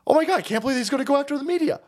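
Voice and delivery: fast, high-pitched fake dismay; mock shock. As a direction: rush it out like a scandalized critic. Mimics critics shocked at media crackdown.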